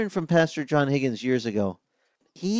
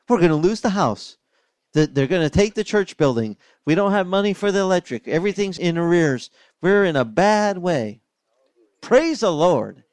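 bright, louder, rising excitement despite bad news; excited; 5 semitones higher, 4 dB louder than usual. Pastor John telling the church they're broke, excitedly. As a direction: cheer up through the list of disasters. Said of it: "he would get excited".

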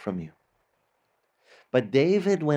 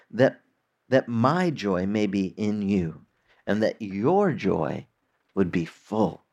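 lower, measured reading of the verse; scripture reading; 3 semitones lower than usual. Acted. Reads Jesus' words from John.

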